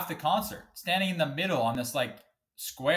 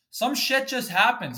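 exasperated shout; 10 semitones higher, 5 dB louder than usual. Real, not acted. Angry rant about hockey fine.

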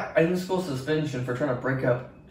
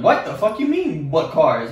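angry retort; 5 dB louder than usual. Retold or imitated. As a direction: snap back in disbelief. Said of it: "I was like".

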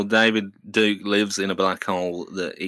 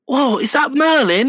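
put-on 1 impressed kid; 13 semitones higher, 5 dB louder than usual. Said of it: "voicing a kid".

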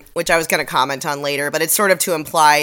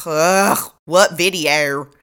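slow, drawn-out mock groan; mock exasperation; much slower than usual. Host imitating the prosecutor hearing about a video, mock exasperated. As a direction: groan it out as if fed up.

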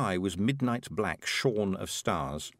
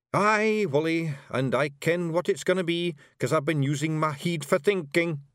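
rowdy little Scots pixie voice; broad Scottish accent; 6 semitones higher than usual. Acted. Rob explains.

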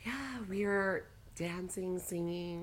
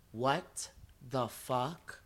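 stunned disbelief; 6 semitones lower, 4 dB quieter, much slower than usual. Retold or imitated. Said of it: "Lonnie was like".

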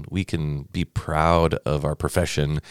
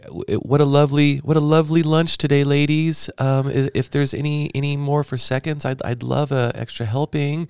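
mock-sweet, high-pitched high schooler; high polite voice; 9 semitones higher than usual. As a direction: imitate a polite student, voice way up high. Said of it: "I didn't know his voice went up that high".

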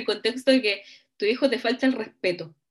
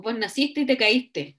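mock scolding; slower than usual. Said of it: "cuando te dicen así como".

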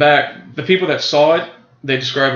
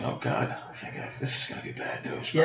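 much softer, near-whispered dismay; hushed dread; 14 dB quieter than usual. Retold or imitated. Patient bracing for the doctor's bad news, hushed dread. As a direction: retell a private sinking thought, barely voiced.

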